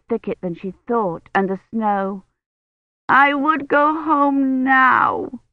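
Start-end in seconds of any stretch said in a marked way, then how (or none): 3.1-5.4 put-on tearful child. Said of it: "began to sob".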